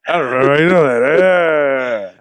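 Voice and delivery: words through laughter; laughing. Real, not acted. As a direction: crack up while saying it. Cracking up mid-line.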